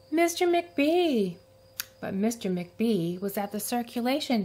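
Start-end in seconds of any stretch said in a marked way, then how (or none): 0.1-1.4 high, slow drawn-out call; raised, drawn-out call; calling again. A narrator's reading. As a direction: call out for help once more. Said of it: "she called after a minute".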